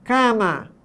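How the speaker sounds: "cama" with the first vowel nasal, nose pinched; pinched-nose "cama", nasal first syllable; nasalized demo. Shown as a demonstration. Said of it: "Aperte o nariz e repita a palavra cama".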